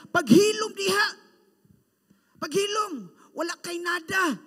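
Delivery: loud high rebuke; scolding crowd. Acted. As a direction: tell him to shut up, harshly.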